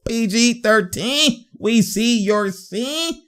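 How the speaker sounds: high, slow, stretched hype call; drawn-out catchphrase. Real, not acted. Hyping the player after a basket, high drawn-out catchphrase. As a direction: stretch each word out high, lifting at the end.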